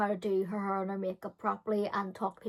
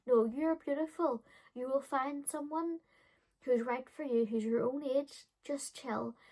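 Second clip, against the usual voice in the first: lightly voiced kind adult, a bit higher and softer; a hint of a soothing adult; 4 semitones higher, 3 dB quieter than usual. Paula reassures the teen, lightly soft and kind. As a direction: reassure her gently. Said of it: "she was like".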